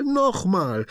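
high joyful cry; excited shout. A narrator's reading. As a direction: land the last one happily. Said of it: "ruft er begeistert".

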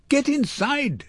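very high scream at contained volume; high, urgent acted scream; mock scream. A narrator's reading. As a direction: shriek the order without full force. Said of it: "screamed Xenia".

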